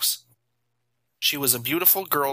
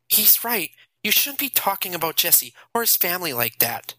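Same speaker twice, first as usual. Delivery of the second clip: Allison; 6 semitones higher than usual. A narrator's reading. Allison defending Jason.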